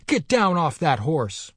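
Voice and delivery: put-on a boy barking at an officer; fierce command. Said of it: "in a ferocious voice".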